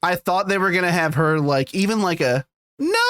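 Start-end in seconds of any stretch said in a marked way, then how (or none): 2.8-3.0 drawn-out mock wail of horror; mild, imitated horror; imitated cry of horror. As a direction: stretch it out like a half-hearted horrified cry. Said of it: "her shriek of horror".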